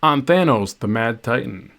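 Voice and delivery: light mock radio announcer. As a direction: play a hammed-up DJ, lightly. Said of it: "I could try to talk like a radio announcer".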